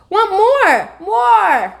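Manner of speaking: little Fudge. A narrator's reading. Toddler asking for more omelet.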